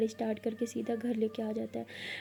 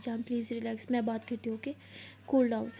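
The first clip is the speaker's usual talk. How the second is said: soothing calm-down; 3 dB quieter than usual. Retold or imitated. Maya calming Aliya down.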